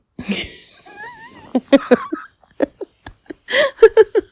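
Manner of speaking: loud high burst of laughter; big laugh. Real, not acted. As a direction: break into real laughter.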